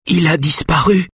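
high, distressed woman's voice; tearful repetition. A narrator's reading. Wife repeats he has disappeared, high and tearful. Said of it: "Les larmes coulent sur ses joues".

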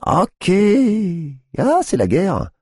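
high, cutting declaration of war; sharp. A narrator's reading. Tiffany declaring war on the cop, sharp and high. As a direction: slice the words, high. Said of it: "d'une voix tranchante".

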